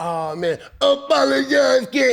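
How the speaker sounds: loud, high, blustery huffing-and-puffing grumble. Speaker mocks the listener's complaints about the team, imitating huffing and puffing. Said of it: "you're doing all that huffing and puffing and saying".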